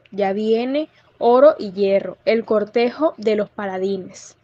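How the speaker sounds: poem recitation. Shown as a demonstration. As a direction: recite the verse in a steady rhythmic beat. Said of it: "que dice así".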